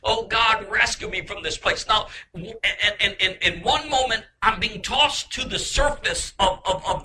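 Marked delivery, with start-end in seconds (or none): 0.0-1.9 mildly raised pleading cry; retold crying out. Man begging God to rescue him from hell, retold crying out. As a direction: cry out for rescue, moderately higher. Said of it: "And I'm crying out".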